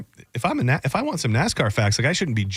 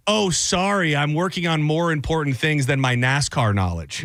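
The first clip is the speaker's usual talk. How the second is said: snippy Alexa. Retold or imitated. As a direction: imitate a condescending smart speaker, lightly. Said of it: "properly communicate with the tone that this bitch had".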